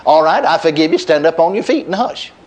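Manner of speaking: a lightly voiced matter-of-fact God; flat and plain. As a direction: say it plainly, no fuss, like closing the matter. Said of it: "he just flatly and plainly said".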